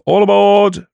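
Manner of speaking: high, loud platform call; shouted. A narrator's reading. Railwaymen call to passengers as the train leaves, shouted. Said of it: "Shouts of".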